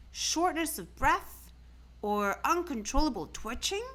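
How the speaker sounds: a lightly voiced doctor, rising through the list; puzzled doctor. A narrator's reading. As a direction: rattle off symptoms like a fussy doctor. Doctor listing symptoms.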